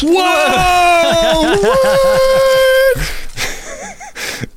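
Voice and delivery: real delighted surprise; surprised whoa. Real, not acted. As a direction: shout of surprise at hearing Star Wars picked. Surprise at Star Wars pick.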